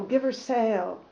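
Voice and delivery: steady storyteller reading aloud; story narration. A narrator's reading. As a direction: read the old voyage tale evenly to listeners. Reads sailing memoir aloud.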